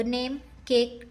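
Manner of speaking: slow नेम and केक, each with a long ए; slow sound demo. Shown as a demonstration. Teacher slowly sounding out example words for children. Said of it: "ए म्हणून सुद्धा आपण एचा उच्चार करतो".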